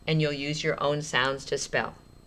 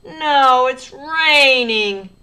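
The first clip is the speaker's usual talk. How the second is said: sad; 9 semitones higher, 10 dB louder, much slower than usual. Shown as a demonstration. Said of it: "maybe you're sad because it got rained out".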